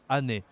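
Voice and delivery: Année with one vowel at the end, è. Shown as a demonstration. Teacher contrasts the unaccented word, Année ending in è. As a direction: close Année on a plain è. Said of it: "A I en français c'est est".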